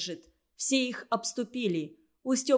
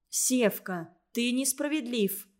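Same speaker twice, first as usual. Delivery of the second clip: ordinary delivery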